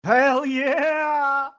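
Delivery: drawn-out high victory whoop; excited cheer. Real, not acted. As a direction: cheer it like your pick won. Cheering the winning ending.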